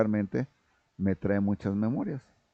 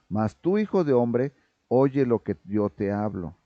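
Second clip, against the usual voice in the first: tender fatherly Lord; 3 semitones higher, 4 dB louder than usual. Acted. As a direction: turn to Ezekiel with affection. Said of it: "con cariño".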